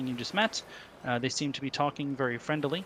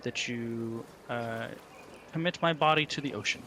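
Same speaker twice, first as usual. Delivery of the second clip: NPC bargaining voice. Acted. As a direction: offer the terms courteously in character. DM voices NPC's offer.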